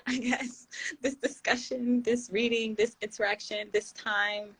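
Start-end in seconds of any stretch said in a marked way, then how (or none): 0.0-0.7 high burst of laughter; laughing at herself. Real, not acted. Host catching her word slip, laughing. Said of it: "reading, laughs".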